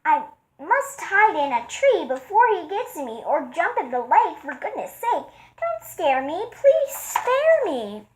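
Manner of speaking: high, slow frightened pleading; mock panic. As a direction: squeal it like a scared giant. Elephant panics at mouse.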